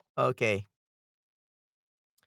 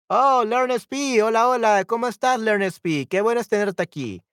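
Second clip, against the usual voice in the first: delighted greeting; 5 semitones higher than usual. Real, not acted. Teacher welcoming a viewer who just joined, delighted greeting. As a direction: greet them with excited, lifted voice.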